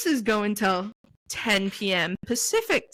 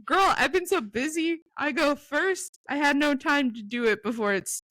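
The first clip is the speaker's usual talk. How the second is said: high, hurried mock-frazzled reading; imitating a flustered friend, high voice; acted-out text; 5 semitones higher than usual. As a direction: read the friend's text pitched up and rushed. First reading of friend's garbled text.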